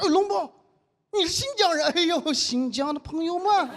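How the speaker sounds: a hint of an imagined Xinjiang accent; mock Xinjiang accent. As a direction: imitate how outsiders fake a Xinjiang accent. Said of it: "模仿他们脑海当中我们新疆人说话的口音".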